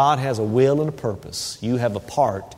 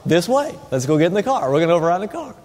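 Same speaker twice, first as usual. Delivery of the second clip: eager dog voice; 4 semitones higher, faster than usual. Pretend. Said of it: "she runs a little farther".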